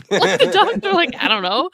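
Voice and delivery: high, loud words through laughter; helpless giggles breaking into the words; cracking up. Real, not acted. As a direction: laugh your way through the punchline. Cracks up at the punchline.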